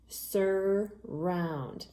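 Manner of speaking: "Surround" stretched into SUR and ROUND; syllable by syllable. Shown as a demonstration. Teacher reading back the spelled word, "Surround" split into two long syllables. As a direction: say "Surround" slowly in two separate beats. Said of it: "divide that word into its two syllables".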